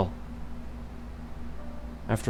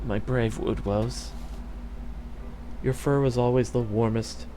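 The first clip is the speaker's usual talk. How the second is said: tender murmur; 6 dB quieter than usual. Acted. Dying queen speaking tenderly.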